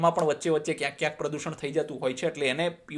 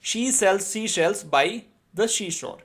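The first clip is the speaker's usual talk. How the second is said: drawn-out, each word separate; very slow tongue twister; 3 semitones higher, much slower than usual. Shown as a demonstration. Teacher reads the seashell twister to students, very slow. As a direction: spell it out slowly for the class. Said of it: "Speak them repeatedly".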